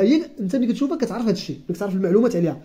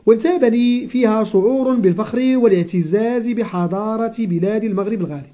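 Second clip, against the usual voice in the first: slow, careful reading of a textbook passage; reading aloud; slower than usual. Acted. Teacher reading the lesson text slowly to the child. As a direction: read each word out slowly for the pupil.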